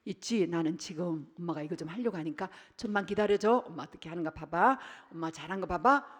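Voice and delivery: calm the little one patiently; mother gently asking her child to wait; gentle mother. Retold or imitated. Mother soothing child, voiced.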